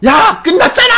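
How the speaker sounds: very high, loud retold yell; hammed-up furious yell; angry shout. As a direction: explode at them in a high shout. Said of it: "너무 화가 나서".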